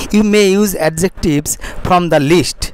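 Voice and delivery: very slow, careful English reading; slow model reading. Shown as a demonstration. Teacher reading the sentence slowly to students. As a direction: read it word by word for the class. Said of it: "slow model reading of English".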